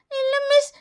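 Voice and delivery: whining pupil close to crying; acted tearfulness. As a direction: plead tearfully, ending in a wail. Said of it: "இதுக்கெல்லாம் அழக்கூடாது". (அழுதபடி சிணுங்கல்)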